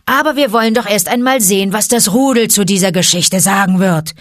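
roaring tiger. Acted. Shere Khan roaring at the wolves as he leaves. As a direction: roar back from outside the den. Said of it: "brüllte".

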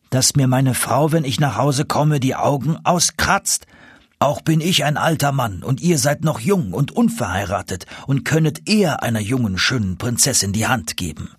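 lightly voiced vizier making excuses; protesting vizier. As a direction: object to the match, dragging the complaint.

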